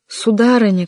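high, loud alarmed call. A narrator's reading. Servant alerting his mistress, high loud shout. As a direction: shout for the lady. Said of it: "крикнул Реми".

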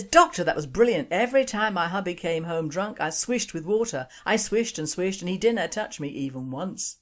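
put-on delighted wife, light Glasgow accent; chuffed Glasgow housewife; Glasgow woman. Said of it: "Glasgow accent is not good".

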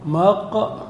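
"مقبول" split as maq, long wuu, lun; syllable by syllable. Shown as a demonstration. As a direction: stop on the qaf of "مقبول", then stretch wuu. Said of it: "القاف ساكنة".

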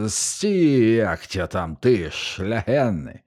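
hungover guard bellows at a passing rider; a drunk hoarse bellow, dragging out the last words; hoarse roar. Acted. Stormtrooper on the steps roaring at the rider, hoarse yell. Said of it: "хрипко заревів".

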